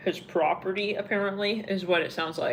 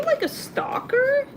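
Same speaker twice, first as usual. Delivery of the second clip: surprised; 5 dB louder, slower than usual. Real, not acted. Incredulous question to the viewer.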